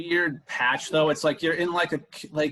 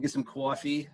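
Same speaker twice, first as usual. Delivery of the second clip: put-on New Jersey accent; 4 dB quieter than usual. Playful Jersey accent on coffee.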